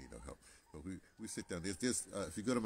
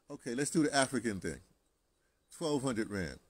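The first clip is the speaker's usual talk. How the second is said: loud, raised bargaining voice; bold haggling; 5 semitones higher, 10 dB louder than usual. Retold or imitated. Customer haggling with the shop owner, loud and bold. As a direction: throw the offer out boldly.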